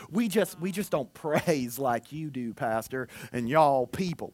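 low, subdued Northerner impression; mock Northern accent. Pastor mimics Northerners excusing their praise, subdued Northern accent. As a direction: play a reserved Northerner, holding back a laugh. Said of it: "you know, us Northerners".

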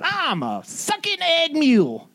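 high, slow folksy saying; grandpa's old saying. Retold or imitated. Quoting grandfather's odd saying slowly, folksy. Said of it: "is one of the things they would used to say".

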